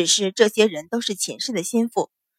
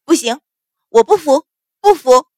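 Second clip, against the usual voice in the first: high, loud protest that builds; shrill, defiant yelling; shrieked defiance; 4 semitones higher, 7 dB louder than usual. A narrator's reading. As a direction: scream refusal while struggling. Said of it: "樊香儿尖叫".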